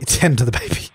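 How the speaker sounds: laughing as you repeat it; giggling at your own words; amused repeat. Real, not acted.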